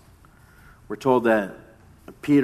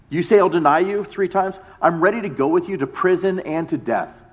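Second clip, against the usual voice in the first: loud, insistent and higher in pitch; bold protest; 6 semitones higher, 5 dB louder than usual. Retold or imitated. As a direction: Peter boldly swearing loyalty to Jesus. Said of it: "Peter's response is".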